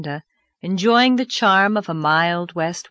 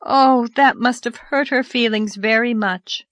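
put-on higher, reproaching girl; reproachful; 5 semitones higher, 4 dB louder than usual. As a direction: scold him gently. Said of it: "said Anne reproachfully".

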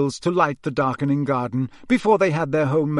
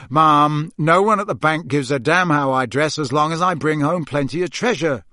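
patient; 4 dB louder than usual. Acted. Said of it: "said Bill patiently".

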